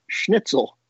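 high-pitched, on the edge of giggling; tickled by the word, voice lifting high; real barely contained laughter. Real, not acted. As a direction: say it while fighting back a laugh. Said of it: "I can't even say it without laughing".

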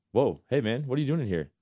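rowdy impression, ending in a loud, high holler; imitating a drunk fan. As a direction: play a drunk football fan working up to a yell. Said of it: "just drunk off his mind".

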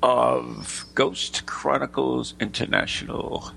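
slow, drawn-out showman announcer read; radio host intro. Acted. Host welcoming listeners to a ghost show, slow announcer style.

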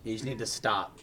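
mock intervention. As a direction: lay it on gently like an intervention.

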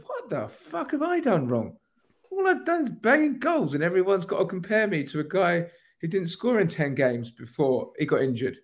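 high, half-laughing mock indignation; imitating Eddie's outrage. Voicing Eddie answering his critics, mock outrage with a laugh. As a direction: play the striker fed up with the doubters. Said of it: "Maybe he just goes".

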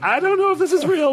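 replaying the shock of seeing the trailer; stunned, can't believe it; amazed disbelief. Quoting own reaction to trailer.

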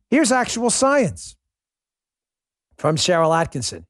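ordinary delivery

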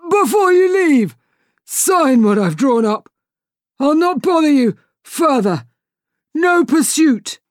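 high, loud, pleading captain; desperate pirate captain. Acted. Hook bargaining while being throttled, high loud pleading. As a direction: bargain for your life.

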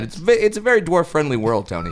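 talking while chewing gum; words around a wad of gum. Real, not acted. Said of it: "spit out my gum".

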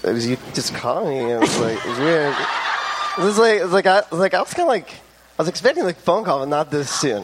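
awkward caller impression, stopping and restarting; guessed phone voice. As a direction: mumble haltingly as the caller you imagine. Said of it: "And this was your guess".

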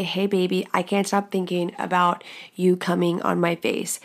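flat, even monotone read. Shown as a demonstration. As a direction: read it dead flat, no enthusiasm. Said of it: "I can say it in this monotone tone forever".

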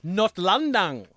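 Notlandung said slowly in German; German pronunciation. Shown as a demonstration. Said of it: "it translates as".

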